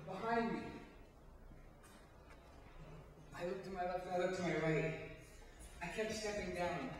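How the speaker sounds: measured stage storytelling with long pauses; dramatic monologue. Acted. Performer alone on stage recalls walking in fog, dramatic monologue. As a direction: recount an eerie memory, phrase by phrase.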